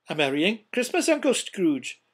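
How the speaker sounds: loud, high hearty greeting; cheerful cry. A narrator's reading. Nephew bursts in on his uncle at Christmas, cheerful cry. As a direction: call it out brightly and cheerily. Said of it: "cried a cheerful voice".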